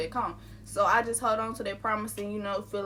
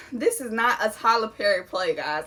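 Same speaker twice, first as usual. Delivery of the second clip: laughing; 5 dB louder than usual. Retold or imitated. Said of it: "That's really what I was thinking".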